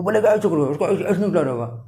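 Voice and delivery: mumbled mock American accent. Teacher joking about how Americans talk, mock American accent. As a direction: imitate an American speaking Hindi. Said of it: "American accent में यही ऐसे होता है".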